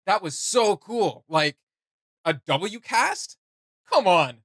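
loud, high, dragged-out hype over a cool line; hyped up. Real, not acted. Gamer raving to his co-host about a voice line, loud hype. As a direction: gush about how cool it was, drawing out the words.

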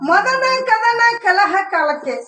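slow, drawn-out stage recitation; declaimed verse line. Acted. Actor reciting a verse to a stage partner, slowly declaimed. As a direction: intone it slowly, falling at the end.

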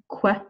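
"que" said as "kweh"; wrong "que", with the U sounded like a W; mispronounced Q U. Shown as a demonstration. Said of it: "I am not pronouncing it".

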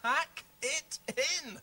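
slow, word-by-word telling-off; scolding. Acted. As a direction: put a firm stop to it, drawn out. Scolding puppets to stop.

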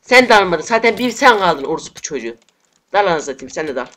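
high, loud cursing at each enemy; real rage, yelled; furious shout. Real, not acted. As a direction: scream insults at the screen. Raging at enemy players.

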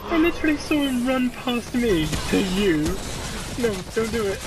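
loud, high, laughing excitement; excited yelling. Real, not acted. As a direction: shout it, thrilled and shocked. Excited reaction to monster chase.

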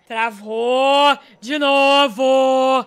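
very slow, drawn-out loud wail; exasperated cry. Real, not acted. Gamer laments the game freezing again, loud drawn-out exasperation. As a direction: stretch each word out loudly.

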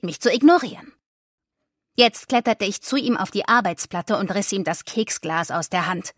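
ordinary delivery

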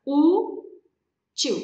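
"U, tio" with a clear pause between the parts; split into syllables. Shown as a demonstration. Teacher separating syllables for students, said piece by piece. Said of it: "Vamos separar".

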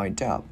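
LINED UP as one unit, "lain-dup"; linked D. Shown as a demonstration. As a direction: carry the D of "lined" into "up". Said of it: "mình liên với chữ up". (nối âm D của "lined" sang "up")

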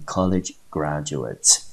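college graduates said carefully, word by word; teacher showing how college graduates sounds; model pronunciation. Shown as a demonstration. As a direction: pronounce college graduates clearly for learners. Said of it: "我们英文就念成".

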